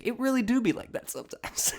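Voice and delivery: high-pitched, breaking into laughter; giggly mock-sage remark; amused, laughing. Real, not acted. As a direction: say it up high and crack up at the end. Cracking up at own comment.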